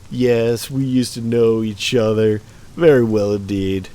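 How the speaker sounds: lightly laid-back hippie voice; a hint of a mellow stoner drawl. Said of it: "I should give him, like, a hippie voice".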